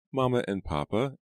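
put-on high-pitched child's voice; little girl. A narrator's reading. Hester answers Ezra about her parents, childlike.

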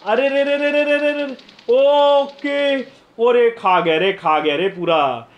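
high, loud, stretched cry; panicked shout. Real, not acted. Streamer watching his team get wiped, loud high panic. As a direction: wail as the squad gets eaten alive.

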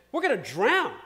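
imitated panicked scream. Fishermen fearing the storm at sea, imitated scream. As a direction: cry out as the frightened fishermen, only partly screamed. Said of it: "And I'm screaming".

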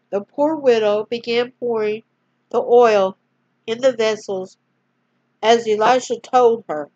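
storyteller reading aloud; story narration. A narrator's reading. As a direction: gently read bedtime-story voice. Reads the caption aloud.

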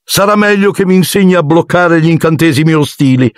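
high, flustered voice; agitated. A narrator's reading. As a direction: speak in a fluster. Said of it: "disse agitato". (voce agitata e acuta)

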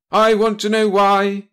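slow, loud, high commanding shout. A narrator's reading. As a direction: yell the demand at your agent. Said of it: "the commander shouted".

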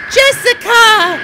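very high, stretched mock call; put-on calling voice. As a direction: call out loudly in a silly falsetto. Playing someone calling Jessica.

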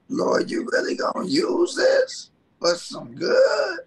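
high shout to God; crying out to God. Retold or imitated. Preacher crying out to God, high shout. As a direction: cry it out, pleading upward. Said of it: "And I'm like".

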